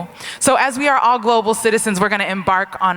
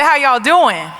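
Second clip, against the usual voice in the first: higher, insistent crowd greeting; rousing repeat; 5 semitones higher, 4 dB louder, slower than usual. Real, not acted. Speaker asks the audience once more after weak reply, rousing. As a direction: ask it higher to draw a response.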